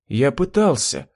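ordinary delivery

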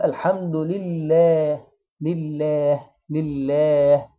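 لله with the "laa" held long and light; slow, measured "lillaah" in الحمد لله; two-count long vowel. Shown as a demonstration. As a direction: stretch the second syllable of لله evenly. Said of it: "فنديها حركتين".

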